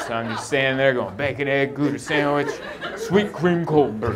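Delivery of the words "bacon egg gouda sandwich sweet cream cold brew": measured self-rehearsal at usual volume; rehearsing to oneself. Retold or imitated. Sleepless customer rehearsing his coffee order in line, measured recital. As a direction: recite the order to yourself, item by item.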